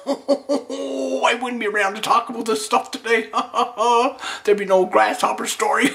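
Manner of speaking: high cackling through the words; laughing. Real, not acted. Grasshopper survivor retelling the missed swipe, cackling high. Cracking up at his near miss.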